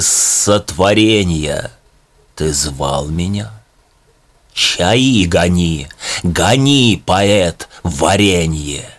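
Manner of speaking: the sun answers the poet in a bass voice; sun's bass voice. Acted. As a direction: speak as the sun in a deep voice. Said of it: "заговорила басом".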